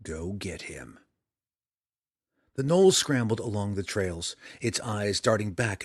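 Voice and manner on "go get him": determined. A narrator's reading. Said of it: "his voice more determined than resigned".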